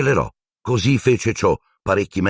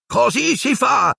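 high, slow jubilant shout; triumphant yell; slower than usual. Acted. Wood celebrating the catch, high jubilant shout. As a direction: cheer it out. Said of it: "ripeteva Wood urlando".

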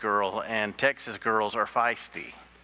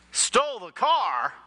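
high-pitched, drawn-out incredulous echo; shocked disbelief; 9 semitones higher, slower than usual. Acted. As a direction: play the stunned trooper, voice leaping up slowly. Trooper shocked by confession in joke.

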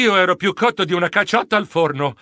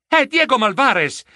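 higher, startled recognition; exclaiming; 6 semitones higher than usual. Acted. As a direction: announce the discovery with a jolt. (esclamazione sorpresa)

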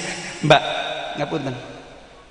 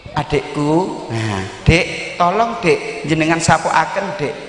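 gentle request; 3 semitones lower, slower than usual. Shown as a demonstration. (permintaan lembut kepada adik)

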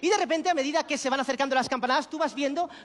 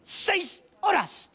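very slow, high, drawn-out answer; mock proud count; 4 semitones higher, much slower than usual. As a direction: stretch each word out like a grand achievement. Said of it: "se cuenta el tiempo que lleva así".

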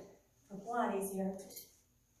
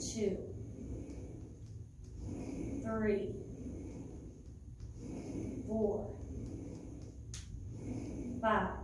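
encouraging coach; slower than usual. Real, not acted. Pushing class through last reps.

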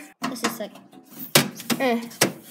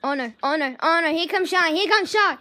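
alarmed; 2 semitones higher, 5 dB louder than usual. Real, not acted. Dog coming, can't get caught.

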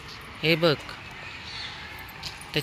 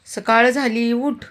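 high, lilting wake-up to a pet; wake-up call; 7 semitones higher, 4 dB louder, slower than usual. Real, not acted. Owner telling the dog morning has come, a high lilting call. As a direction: coax him out of sleep.

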